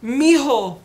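high, slow, drawn-out voice of a dead grandmother; eerie high grandma voice calling from beyond; imitating grandma. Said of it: "hear my grandma talk to me".

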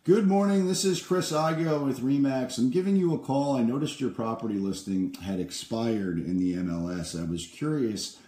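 bright, friendly salesman on the phone; upbeat cold-call pitch. Acted. Realtor cold-calling an expired-listing owner, upbeat sales pitch.

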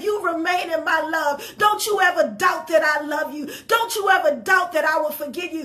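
firm, pleading "Don't you ever doubt"; voicing God's promise. Preacher voicing God speaking to his people, firm and urgent. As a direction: press each "Don't" hard, preacher's urgency. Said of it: "Then he says".

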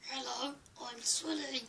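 lightly voiced Sully, breathy near-whisper at the end; a rubbish put-on monster voice; Sully impression. Kid doing his Sully voice for the camera, barely changed. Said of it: "that's my Sully impression".

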